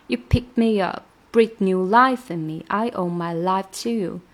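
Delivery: teacher stressing life. Shown as a demonstration. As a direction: give "life" weight. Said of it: "这个life要稍微重读一下".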